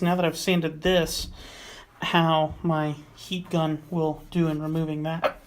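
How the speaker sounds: talking with the hiccups; hiccuping between words. Real, not acted. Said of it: "I got the hiccups".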